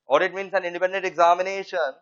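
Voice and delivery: slow, careful dictation. Shown as a demonstration. Teacher dictating the definition to students, slow. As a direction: spell it out for note-takers. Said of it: "इतना fast बोल रहे हो".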